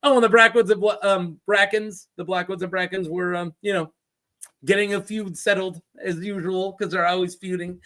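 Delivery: breezy offhand mock telling; tossed off like nothing; mock casual narrator. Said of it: "how casually we're gonna throw out".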